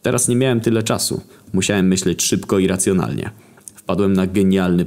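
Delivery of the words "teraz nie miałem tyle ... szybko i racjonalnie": usual speaking voice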